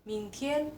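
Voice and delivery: "Mingtian" rising, then high level; "Mingtian" with a rise on ming, tian held high; second tone then first. Shown as a demonstration. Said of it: "Nada kedua".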